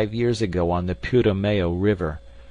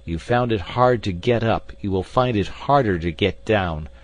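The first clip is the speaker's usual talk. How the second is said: raised, vengeful taunting, loudest and highest at the start; acted villain's tirade, easing slightly as it goes; frantic gloating; 5 semitones higher, 4 dB louder than usual. A narrator's reading. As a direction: crow over trapped enemies across a chasm. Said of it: "more frantic than before".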